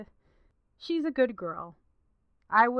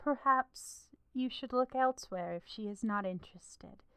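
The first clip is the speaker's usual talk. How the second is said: unvoiced, hushed whisper; 8 dB quieter than usual. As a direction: whisper the advice. Quiet advice to spurned suitor.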